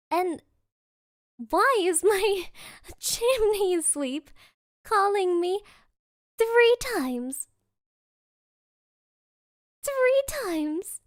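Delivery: building to a loud, high outburst; climbing to a high, loud exasperated peak. Real, not acted. Exasperated rant about three calls.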